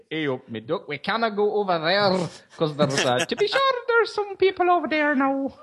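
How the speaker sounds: put-on Robin Hood accent mashup; mixed accents. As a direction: slide from Nottingham to Irish. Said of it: "all of those accents".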